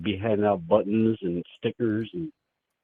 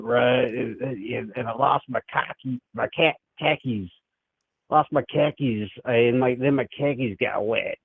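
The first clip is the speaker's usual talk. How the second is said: hammed-up Boston accent with broad vowels; badly faked Boston guy telling a story. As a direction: put on a rambling Boston accent. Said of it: "Can you do a Boston accent?".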